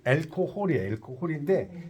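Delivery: 알코홀 with the h and stress at the end; English pronunciation. Shown as a demonstration. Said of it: "여기 강세가 뒤에 와요". (끝에 강세 준 알코홀)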